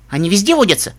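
nonchalant. Acted. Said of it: "таким голосом, будто её это совсем не волновало".

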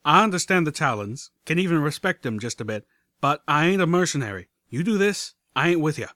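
firm drawled refusal; gruff stallion voice. Acted.

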